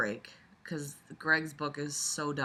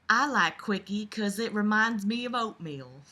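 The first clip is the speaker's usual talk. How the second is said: southern belle; 4 semitones higher than usual. Acted. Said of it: "I'll do this reading all in Southern Belle voice".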